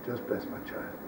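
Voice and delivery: whispered, almost breathless plea; hushed plea. Retold or imitated. Mother begging the rebbe for her child, whispered. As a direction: drop to a whisper as she begs.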